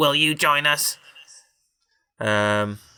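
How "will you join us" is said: machine-like robotic speaking voice. In a story, a voice inside the room asks a question, in a robotic voice. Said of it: "a robotic voice asked".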